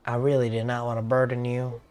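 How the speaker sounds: apologetic Southern game character; Southern accent. Acted. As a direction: keep him in a Southern accent. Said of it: "keep this man on, on Southern mode".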